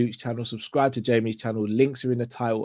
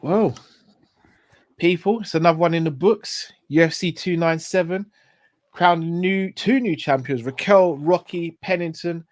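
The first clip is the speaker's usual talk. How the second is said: announcer voice. Acted. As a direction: announce the results like a show host. Show outro wrap-up.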